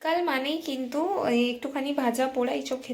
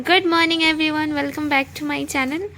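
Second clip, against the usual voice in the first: slow, louder, upbeat hello to viewers; bright vlog greeting; 4 semitones higher, 5 dB louder, much slower than usual. Real, not acted. Vlogger opening her channel for viewers, cheerful greeting. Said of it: "good morning করে দাও সবাইকে".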